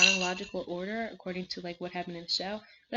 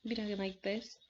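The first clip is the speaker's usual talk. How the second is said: lightly imitating an excited, smiling talker; Mark; 4 dB quieter than usual. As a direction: do a mild smiley impression. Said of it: "he's smiling and he's talking like this".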